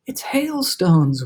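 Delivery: slow, breathy eager discovery; thrilled but hushed; excited whisper. Acted. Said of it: "whispered James excitedly".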